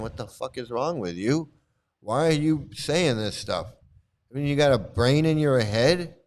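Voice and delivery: incredulous telling-off, leaning on the key words; exasperated scolding. Acted. Guru berating his disciple for careless talk, exasperated scolding. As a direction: demand an answer in disbelief.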